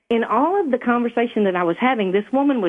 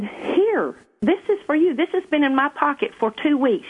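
higher-pitched retelling of an eager friend; lightly acted insistence, higher voice; retold urgency; 7 semitones higher than usual. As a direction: quote her urgently, pitched up. Retold urgent handing over of card.

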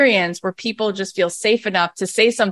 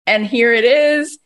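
surprised; 5 semitones higher than usual. Retold or imitated. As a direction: gasp at your own breakthrough. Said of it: "it feels so good to go".

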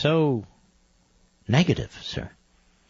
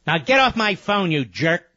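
raised-pitch, irritated send-off; angry dismissal; 4 semitones higher than usual. Real, not acted. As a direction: throw the caller off the line. Host angrily throws caller off.

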